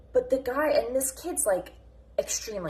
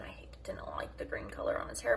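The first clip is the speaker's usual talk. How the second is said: confiding whisper; 12 semitones lower, 5 dB quieter than usual. Real, not acted. Confessing dislike of green hair.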